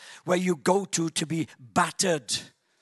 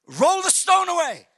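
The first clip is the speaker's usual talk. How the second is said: mild commanding Jesus; 9 semitones higher, 4 dB louder than usual. Acted. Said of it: "Then Jesus".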